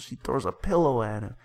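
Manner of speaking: dramatic recitation. Acted. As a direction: act out each side of the quarrel while narrating.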